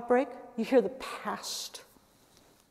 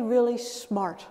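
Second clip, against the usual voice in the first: slow, drawn-out really smart; slow, lightly adoring really smart; slow mock praise; slower than usual. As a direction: stretch out really smart like a smitten partner. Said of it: "as if you were describing your romantic partner".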